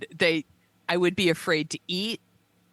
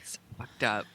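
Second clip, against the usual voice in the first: breathless unvoiced whisper, much lower; 10 semitones lower, 7 dB quieter than usual. Real, not acted. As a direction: breathe it out in disbelief. Whispered repeat after plain take.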